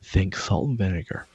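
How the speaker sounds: lightly sultry product read; commercial voice. Pretend. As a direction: sell it smoothly, like a snack ad. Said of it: "No, it's my commercial voice".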